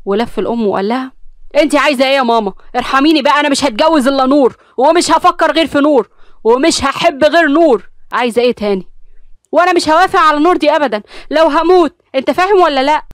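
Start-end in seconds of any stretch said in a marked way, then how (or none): 1.6-8.9 louder, higher, desperate outburst; angry pleading. Acted. Son shouting at his mother to leave him alone. 9.5-13.1 much higher and louder, shouting; furious refusal. Acted. Mother shouting her refusal at her son.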